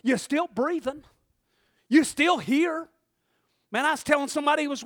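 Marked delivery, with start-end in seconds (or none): 0.0-2.9 spoken to a loved one. Retold or imitated. Preacher models what to say to the person prayed for, firm. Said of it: "Go right to their face".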